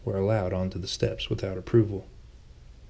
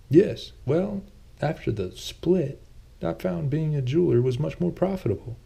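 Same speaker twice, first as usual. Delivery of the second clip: Thomas, a touch sheepish; 7 semitones higher than usual. A narrator's reading. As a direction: play Thomas a little defensive, pitched up. Thomas voiced by narrator.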